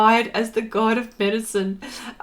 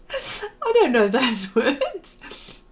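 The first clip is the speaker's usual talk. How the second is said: slow, breaking into laughter; laughing; 2 semitones higher, much slower than usual. Real, not acted. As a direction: laugh through the words. Repeats line, laughing.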